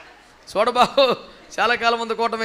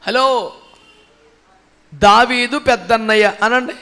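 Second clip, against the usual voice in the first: normal talking voice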